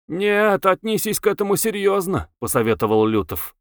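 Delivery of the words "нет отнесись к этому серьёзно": higher-pitched, insistent advice; pressing, in a raised pitch; earnest urging. A narrator's reading. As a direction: urge them to take it seriously. Urging friend to take it seriously.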